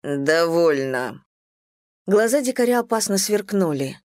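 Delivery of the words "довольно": slow, every sound distinct; firm and clear. Acted. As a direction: lay down the final word. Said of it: "и чётко повторил".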